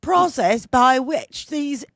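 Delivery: mock-royal English accent read. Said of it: "It's a shitty English accent".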